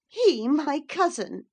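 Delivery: high, slow scoffing cry; scornful. A narrator's reading. Cathy scorns the notion Hareton is her cousin, scornful. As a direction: sneer at the very idea. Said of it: "with a scornful laugh".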